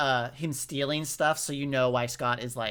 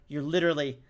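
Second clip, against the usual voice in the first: exasperated. Retold or imitated. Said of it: "And I remember being like".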